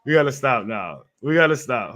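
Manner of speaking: shouting over the music to stop the track; calling loudly over a loud club song. Real, not acted. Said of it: "That's enough of that".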